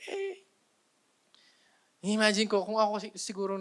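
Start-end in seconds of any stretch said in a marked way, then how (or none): 0.1-0.5 cheer. Shown as a demonstration. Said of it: "sigaw kayo sa last".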